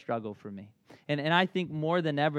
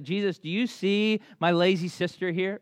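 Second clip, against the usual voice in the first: loud, higher mock complaint; hammed-up outrage at a lazy sister; furious Martha; 7 semitones higher, 8 dB louder than usual. Pastor acting Martha complaining to Jesus, mock-furious and loud. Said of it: "Martha is furious".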